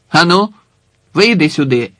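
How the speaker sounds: loud sharp command; angry order. Acted. The guard orders a man from the crowd, loud and angry. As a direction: order him out, hard.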